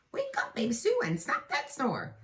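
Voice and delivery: lightly voiced calling to baby; sweet baby call. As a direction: coo it at the baby.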